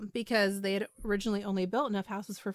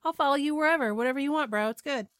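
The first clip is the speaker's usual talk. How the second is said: high, easygoing, casual voice; breezy, shrugging "whatever, bro"; laid-back follower; 5 semitones higher, 3 dB louder than usual. Retold or imitated. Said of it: "And Larry was just like".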